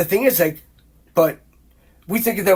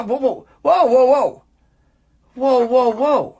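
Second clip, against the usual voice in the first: incredulous whoa; 6 semitones higher, slower than usual. Real, not acted. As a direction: react as if you can't believe it. Reacting to a quoted claim.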